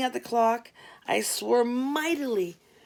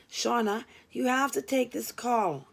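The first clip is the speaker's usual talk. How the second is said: firm; 2 semitones higher than usual. Acted. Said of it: "I said with some firmness".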